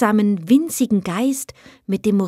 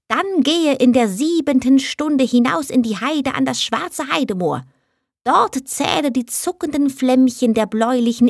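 a higher, lightly voiced little goblin, solemn and warning; heath spirit's instructions; 5 semitones higher than usual. Captured heath spirit tells the mother how to free her child, solemn warning. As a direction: pronounce the spell's conditions gravely.

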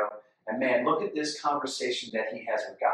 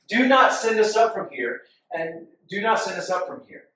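insistent plea; 3 semitones higher, 6 dB louder than usual. Acted. Reading Moses questioning God again.

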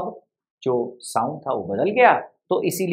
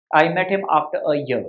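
slow example sentence; much slower than usual. Shown as a demonstration.

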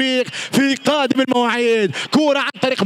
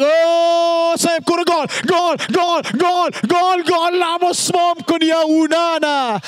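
joyful goal chant; goal call; 2 semitones higher than usual. Real, not acted. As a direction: cheer the goal.

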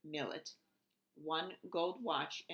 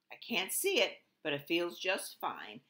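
put-on proud baby dragon; 4 dB louder than usual. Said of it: "said the proud baby dragon".

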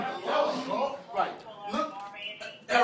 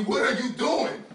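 scared pleading. Real, not acted. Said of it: "I'm fucking scared right now".

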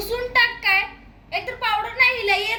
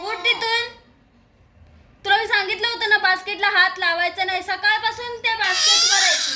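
scolding; 3 semitones higher, 4 dB louder than usual. Real, not acted. Scolding the dog about the basket.

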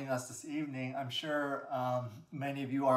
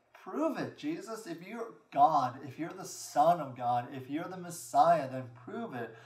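emphatic retold taunt; mocking challenge. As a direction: goad him in the scoffer's words. Acting out the mocker's challenge.

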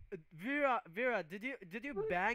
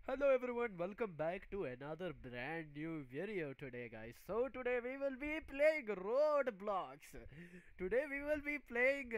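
YouTuber intro voice. Pretend. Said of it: "I would be like".

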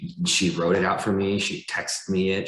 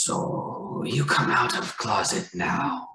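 put-on a slow, higher, lightly accented grandpa voice; imitating grandfather; 6 semitones higher, much slower than usual. Grandson retelling grandpa's surprise question, lightly voiced. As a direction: mimic the old man's delighted, careful question.

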